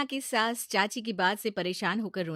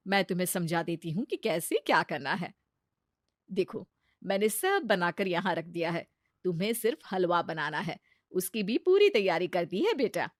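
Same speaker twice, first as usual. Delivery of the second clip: kind mother-in-law; 2 semitones lower, 4 dB louder than usual. Acted. Mother-in-law kindly shows Sheena the kitchen, gentle voice. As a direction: calmly take her under your wing.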